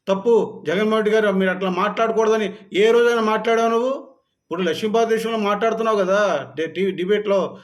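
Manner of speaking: real shouting rebuke; loud angry rebuke. Real, not acted. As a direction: throw the question at him in anger. Ranting at the TV journalist.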